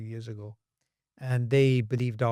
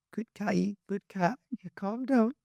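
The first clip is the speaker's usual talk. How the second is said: higher-pitched coaxing, as if to a cat; mock soothing; 6 semitones higher, 3 dB quieter than usual. Scientists placating a lion, mock soothing. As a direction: gently talk down a dangerous animal, pitched up. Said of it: "trying to basically calm down the".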